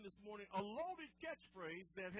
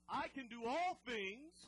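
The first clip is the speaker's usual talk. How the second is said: declared catchphrase; 2 semitones higher, 6 dB louder, slower than usual. Shown as a demonstration. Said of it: "we say this one all the time".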